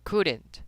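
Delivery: "couldn't" with no L sound; silent L. Shown as a demonstration. Teacher models a word for students, silent L. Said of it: "la L nunca se pronuncia".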